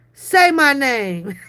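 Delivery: slow, laughing through the words; laughing mock demand; laughing taunt. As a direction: tease him while cracking up.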